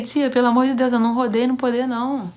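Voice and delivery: loud, exasperated denial to her aunt; exasperated protest. Retold or imitated. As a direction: raise your voice to correct your aunt. Protesting aunt's exaggeration.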